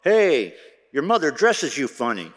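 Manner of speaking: loud, high mock yell from the crowd; jeering shout across the room; heckler's yell. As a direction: call it out high and teasing, like a heckler. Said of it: "some person would yell out".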